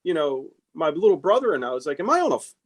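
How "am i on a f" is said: retold exasperated outburst. Retold telling off persistent client.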